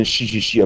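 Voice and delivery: 嘘嘘嘘 as a drawn sh hiss; shushing sound demo. Shown as a demonstration. Teacher showing students C I sounds like 嘘, hissed. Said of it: "念成嘘嘘嘘".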